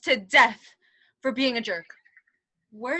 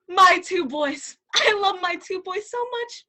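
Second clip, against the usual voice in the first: hammed-up sob; 3 dB louder than usual. King cries over sons.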